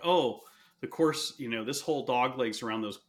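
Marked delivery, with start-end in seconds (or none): 0.0-1.3 higher and louder, marveling; lightly voiced awe at the golf; awed exclamation. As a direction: gush over the perfect shot. Describing golfer's perfect shots.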